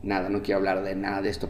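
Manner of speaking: quietly begging his wife to leave it; weary plea. Retold or imitated. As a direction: hush it out, pleading not to be asked. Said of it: "le digo a mi esposa".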